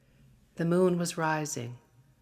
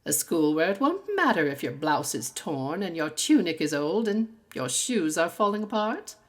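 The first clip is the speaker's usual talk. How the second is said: lightly voiced haughty headmistress sneering at a pupil; stern teacher's scolding; 2 semitones higher, 5 dB louder than usual. Madame scolding the poor girl.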